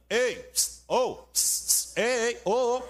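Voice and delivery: high hissing call across the street; mock rude street call; calling pss. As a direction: pss at him rudely. Big worker hissing across street.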